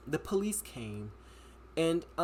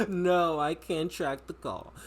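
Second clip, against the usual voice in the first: mock dispatcher; slower than usual. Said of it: "the way he said it".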